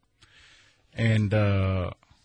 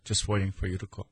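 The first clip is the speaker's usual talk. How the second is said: softer and fast, hushed mock waiting; quiet; 7 dB quieter, faster than usual. Shown as a demonstration. Host to listeners, pretending to wait quietly for calls. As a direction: drop to a hush while pretending to wait. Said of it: "We'll be here quiet".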